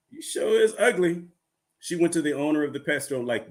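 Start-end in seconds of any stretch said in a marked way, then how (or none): 0.1-1.2 high-pitched sassy parrot; insulting parrot. Acted. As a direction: repeat the taunt as a cheeky bird. Parrot's insult repeated in joke.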